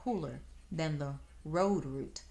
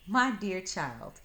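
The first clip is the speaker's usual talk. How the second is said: disgusted; 3 semitones higher, 5 dB louder, slower than usual. Acted. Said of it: "sounding right disgusted".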